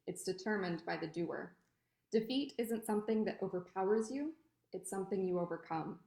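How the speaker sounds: measured, deliberate poem recital; poetry reading. Acted. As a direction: read it as verse, pausing after each phrase. Reads own poem aloud.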